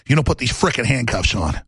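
low, menacing killer's voice, taunting his victim; Ted Bundy threatening a girl in his car, low and menacing. Retold or imitated. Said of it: "And he's".

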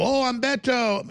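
put-on Hispanic accent, stretched out; mock Hispanic accent. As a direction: parody a politician faking a Hispanic accent. Mocks politician posing as Hispanic.

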